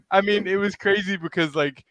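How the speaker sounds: usual speaking voice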